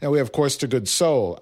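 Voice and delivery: imitated New York teacher; thick New York accent. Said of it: "had such a thick New York accent".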